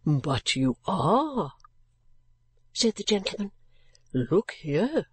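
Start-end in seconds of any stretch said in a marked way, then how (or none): 0.0-1.5 very slow, lower, blunt insistence; gruff gentleman. Acted. 4.1-5.1 very slow, lower, blunt insistence; gruff gentleman. Acted.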